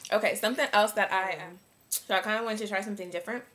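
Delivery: talking with a mouthful; words round a bite of food; mouth full. Real, not acted. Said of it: "I probably shouldn't eat and make tutorials".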